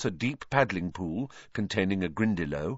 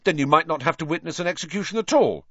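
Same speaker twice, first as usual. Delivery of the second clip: stoutly; 8 semitones higher, 4 dB louder, faster than usual. A narrator's reading. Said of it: "said Ron stoutly".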